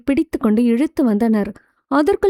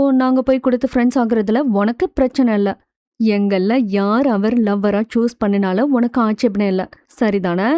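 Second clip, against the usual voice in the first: mock serious. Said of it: "சிரிப்பை அடக்கியபடி சீரியஸாக பேசினாள் வந்தனா".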